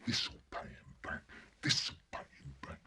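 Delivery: whispered with glee; boy plotting revenge in a whisper; scheming whisper. Acted. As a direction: hiss the revenge to yourself.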